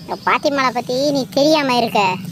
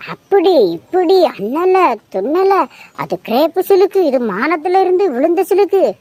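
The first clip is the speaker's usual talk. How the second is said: imitating the seller. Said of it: "அப்படின்னா".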